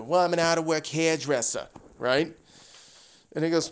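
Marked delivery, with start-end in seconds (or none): 0.0-1.7 attempted Italian-American movie accent; lightly put-on Italian accent, dropping the r's. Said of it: "I'm doing my Italian accent".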